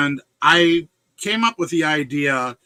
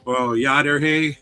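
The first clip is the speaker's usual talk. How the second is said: Yooper accent; slower than usual. Shown as a demonstration. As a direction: demonstrate a Yooper sentence-ender. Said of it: "end it with either a".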